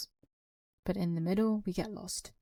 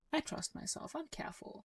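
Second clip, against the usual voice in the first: whispered reassurance; 9 semitones higher, 9 dB quieter than usual. Retold or imitated. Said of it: "Some people might have this mentality".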